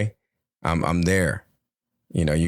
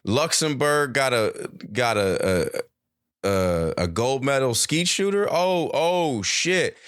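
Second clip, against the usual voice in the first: surprised viewer; 6 semitones higher, slower than usual. Retold or imitated.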